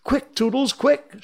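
very high, urgent fairy squeal; frantic little fairy scream. Acted. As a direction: urge him on in a high, loud voice. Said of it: "she screamed".

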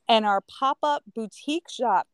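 strained, failing voice; voice giving out. Real, not acted. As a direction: talk through a voice that's going. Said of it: "I'm losing my voice".

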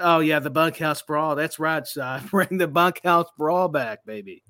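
lightly voiced Texan wrestling legend; easy-going hint of Dusty Rhodes; Dusty Rhodes impression. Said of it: "your Dusty Rhodes is so much better than mine".

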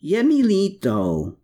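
slow and earnest; slow heartfelt apology in Czech; sincere Czech apology. A narrator's reading. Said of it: "the sincerity in his voice".

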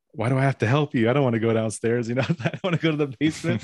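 mock complaint that breaks into a laugh; reluctant wife.

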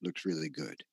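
a hint of a hungry monster, low and soft; hungry dinosaur voice. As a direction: drop low and quiet like a greedy beast eyeing a meal. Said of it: "Another dinosaur on looks and says".

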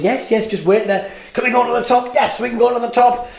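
high, lightly voiced patient mother; a hint of a mum calming her child; mother's voice. Mother answering her excited son, lightly voiced patient reply. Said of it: "his mother says".

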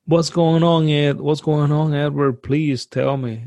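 half-acted tearful plea, slowing at the end; a touch of panicked crying in her voice. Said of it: "she's crying".

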